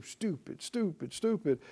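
soft, bitter stupid stupid stupid; quietly beating yourself up; self-scolding mutter. Retold or imitated. A believer muttering insults at himself, soft and bitter. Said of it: "hammer themselves and go".

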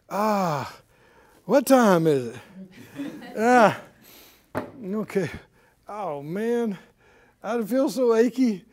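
hammed-up morning grumbler; mock griping. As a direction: groan and grumble like someone fussy getting out of bed. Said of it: "many people are used to griping".

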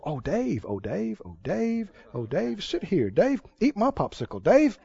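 a hint of mock adoration, laughing; mock fawning crowd. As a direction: fawn over Dave like a doting crowd. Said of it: "everybody's supposed to go".

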